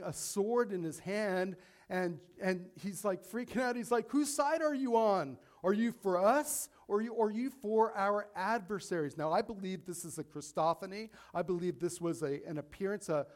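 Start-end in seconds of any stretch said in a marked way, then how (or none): 4.1-9.2 high, loud, startled demand; alarmed challenge. Retold or imitated. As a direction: Joshua freaking out at a stranger with a sword. Joshua challenges armed stranger.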